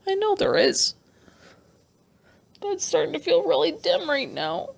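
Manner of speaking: on the verge of tears. Real, not acted. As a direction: hold back the crying as you confess. Tearful confession, voice raised.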